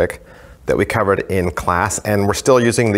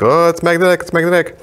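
higher-pitched mock wonder; put-on showman's "oh", pitched up; pretend amazement; 8 semitones higher, faster than usual. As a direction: act as if the magic is really working. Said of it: "like, mimic".

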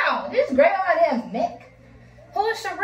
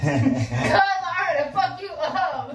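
laughing; 2 semitones higher, much slower than usual. Real, not acted. Laughing while threatening boyfriend.

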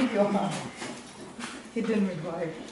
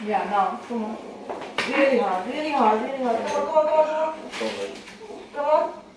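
urgent coaching; 3 semitones higher than usual. Acted. Midwife coaching a push.

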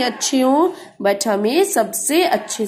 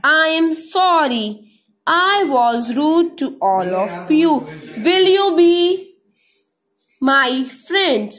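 a touch of tearful, higher pleading voice; the train in tears, apologising to the toys, pleading; tearful apology; 5 semitones higher, much slower than usual. Acted. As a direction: apologise with tears in your eyes. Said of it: "Chuk Chuk eyes filled with tears".

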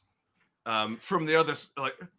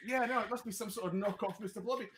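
doubtful local; 10 semitones higher, 4 dB quieter, faster than usual. Pretend. Crowd member doubts the costume.

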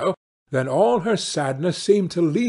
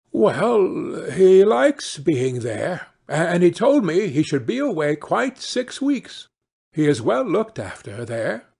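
a lightly voiced nervous mother, pitched up; 3 semitones higher than usual. Mother to her husband, covering a lie, nervously. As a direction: cover the lie with a quick, bright excuse.

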